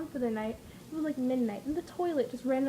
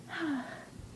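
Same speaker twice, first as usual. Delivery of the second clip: weary sigh; 7 dB quieter than usual. Retold or imitated. Acting out exhaustion after many stairs.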